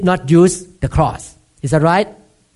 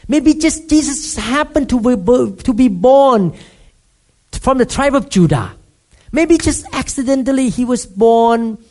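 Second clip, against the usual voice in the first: higher, doubting skeptic voice, slowed on maybe; dismissive sceptic brushing it off as chance; mock skeptic; 3 semitones higher than usual. Mocking skeptic's argument.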